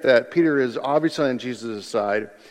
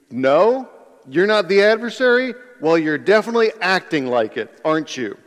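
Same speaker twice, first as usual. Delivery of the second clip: challenging comeback; 5 semitones higher than usual. Acted. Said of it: "might continue".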